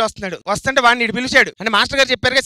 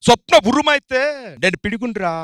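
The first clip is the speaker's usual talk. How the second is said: Prakash Raj villain; 2 semitones higher, 5 dB louder than usual. Acted. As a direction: rant like a swaggering villain. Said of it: "నేను మాంత్రికుని".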